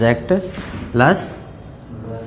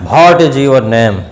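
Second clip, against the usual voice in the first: barked-out question, slow and loud; mock scolding question; 6 dB louder, much slower than usual. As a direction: ask it like you're telling someone off. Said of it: "ऐसे बोल देते हैं जैसे डांट रहे हैं".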